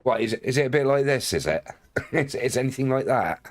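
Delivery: unsure stab at Bristolian; tentative, questioning Bristolian accent. Acted. Streamer asking chat if it's like this, Bristolian accent. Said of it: "what a Bristolian accent sounds like".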